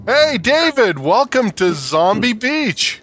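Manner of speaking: loud, bright host welcome; excited greeting. Real, not acted. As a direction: welcome him in big. Greeting new guest on show.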